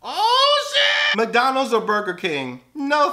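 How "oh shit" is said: high sudden oh shit; startled outburst, much higher; surprised. Real, not acted. Realizing Wendy's sells gift cards, surprised.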